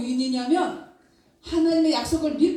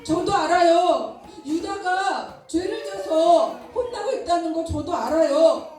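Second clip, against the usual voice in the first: arguing with God; 4 semitones higher than usual. Acted. Habakkuk argues with God about wicked Babylon, indignant. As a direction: protest the unfairness, pleading and indignant. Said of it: "이렇게 하나님께 따졌어요".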